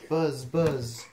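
loud double buzz; bee buzz. Acted. Reader reviews the bee's sound, buzzing loudly. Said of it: "He can sound like a bee".

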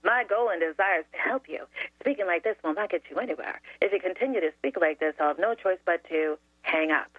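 composed, sugary scripted reply; syrupy sweet. Retold or imitated. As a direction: answer rudeness with rehearsed sweetness. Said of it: "the most syrupy, sweet voice".

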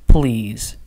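low, sincere please; earnest plea. A narrator's reading. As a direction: soften into a low request. Softened plea after warning.

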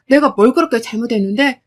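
indignant question. Acted. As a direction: ask 내가 뭘 그렇게 잘못했는데 with rising anger. First demand, rising.

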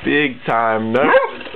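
cooing pet talk. Real, not acted. Cooing to dog.

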